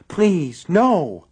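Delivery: high, loud frantic plea; panicked pleading. A narrator's reading. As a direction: beg in terror.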